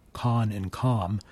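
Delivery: slow "con and com" with weak vowels; "con and com" said slowly, schwa vowel. Shown as a demonstration. Pronunciation teacher saying con and com slowly. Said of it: "when you say the C O N or C O M syllable".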